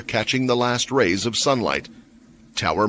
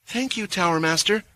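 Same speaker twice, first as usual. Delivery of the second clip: respectful; 9 semitones higher than usual. A narrator's reading. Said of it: "Martha said respectfully".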